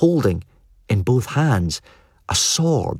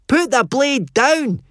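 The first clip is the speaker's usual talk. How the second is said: hoarse with fear; slower than usual. Acted. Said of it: "sounded hoarse with fear".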